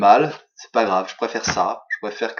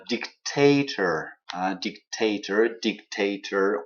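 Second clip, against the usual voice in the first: dictator said slowly, weight on TA; slow teacher's model of dictator, second syllable stressed; slower than usual. Shown as a demonstration. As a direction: hit the middle of dictator: dic-TA-tor. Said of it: "c'est la deuxième syllabe qui est accentuée".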